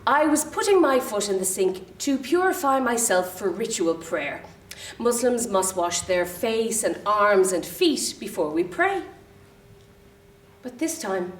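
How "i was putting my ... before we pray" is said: composed, matter-of-fact explanation to the cleaner; matter-of-factly. Acted. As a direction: explain it plainly and evenly. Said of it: "said matter-of-factly".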